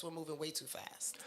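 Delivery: whispered aside; whispering. Real, not acted. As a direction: drop to a whisper. Whispered complaint.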